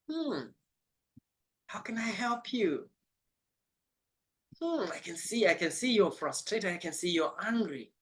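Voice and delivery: calm them down from a place of love. Acted. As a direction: speak softly as if soothing an angry person. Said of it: "She lowers her voice".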